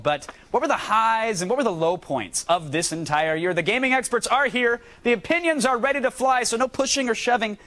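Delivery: lively TV host read; segment host intro. Acted.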